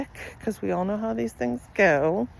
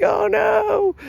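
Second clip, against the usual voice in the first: high, loud mock yelp of alarm; shocked oh no; 13 semitones higher, 6 dB louder than usual. Reacting to the boy's remark, loud mock alarm. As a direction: squeal it like you're scandalized. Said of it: "I'm like".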